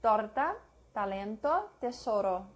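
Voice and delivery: T in "Torta, talento, tesoro" with tongue on upper front teeth; no puff of air on the T of "talento"; soft unexploded T. Shown as a demonstration. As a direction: dental Spanish T in "tesoro". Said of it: "Not explosive".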